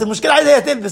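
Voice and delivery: laughing through the repeated point; half-laughing emphasis on عايزة; a chuckle under عايزة هي تلبس. Real, not acted.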